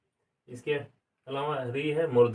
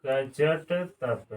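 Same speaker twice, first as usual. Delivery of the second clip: कचट तप drawn out very slowly, syllable by syllable; slow mnemonic chant; slow syllable drill; much slower than usual. Shown as a demonstration. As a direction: stretch the formula so it sticks. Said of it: "एक आप formula याद रखेंगे".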